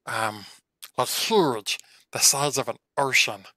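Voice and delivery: lightly voiced little fox, unsure; small creature's halting estimate; fox in clean voice. Fox guesses the puddle's size, hesitant and lightly voiced. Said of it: "I'm gonna do this in the clean voice".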